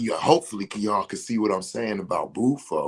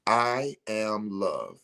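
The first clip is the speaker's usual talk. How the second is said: slow calm affirmation; 3 dB quieter, much slower than usual. Shown as a demonstration. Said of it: "sit here and say".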